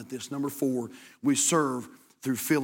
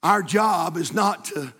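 calm; 4 semitones higher, 4 dB louder than usual. Acted. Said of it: "drops back to calm".

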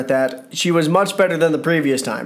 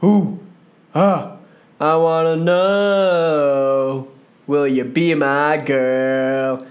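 a fan in the Glasgow crowd teasing Bayley, mock Scottish accent; bad Scottish accent; much slower than usual. Wrestling vlogger imitating the Glasgow crowd, bad Scottish accent. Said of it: "Terrible accent, I know".

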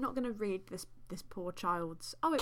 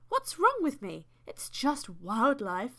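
self-reassurance; 3 semitones higher, 5 dB louder, slower than usual. Acted. Acts the narrator's self-talk.

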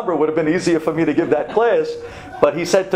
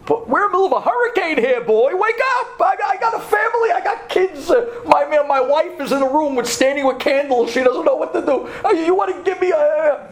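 hammed-up disbelief at a crazy request; exasperated retort; 10 semitones higher than usual. Retelling his exasperated reply, mid-hurricane.

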